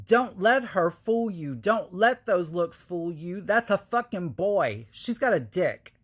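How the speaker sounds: a touch of a furious man outing her; angry retold outburst. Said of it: "he says".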